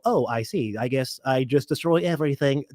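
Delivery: stiff robot voice, deadpan. Retold or imitated. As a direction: calmly announce doom like a machine. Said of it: "I like your robot voice too".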